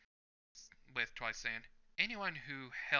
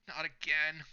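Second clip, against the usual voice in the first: higher, louder panicked plea; a frightened outburst, pitched up; freaking out; 5 semitones higher, 5 dB louder than usual. A narrator's reading. Twice panicking as Hawks stands over him, higher and louder. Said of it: "Twice is still freaking out".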